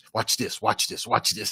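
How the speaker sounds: breathy, breathed-out whisper. Doing an impersonation of Bishop Eddie Long: Bishop Eddie Long impersonation. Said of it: "In my best Bishop Eddie Long impersonation".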